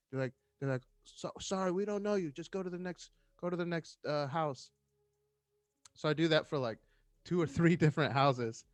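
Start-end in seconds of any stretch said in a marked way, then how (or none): 1.0-4.7 mock refusal. Trailer folks refusing him.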